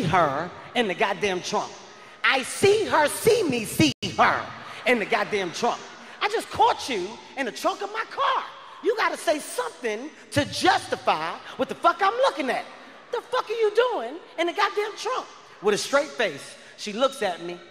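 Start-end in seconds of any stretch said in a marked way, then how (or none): 2.2-5.8 shocked disbelief. Retold or imitated. Disbelief seeing her in trunk. 6.2-15.3 much higher, demanding an answer; incredulous outrage. Retold or imitated. Boyfriend confronting girlfriend hiding in his trunk, high outraged disbelief.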